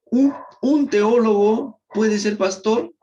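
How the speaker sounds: slow, breathy whispered question; hushed whisper, slow and drawn out. Shown as a demonstration. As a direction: lean in and whisper the question, slowly. Rhetorical question posed to class.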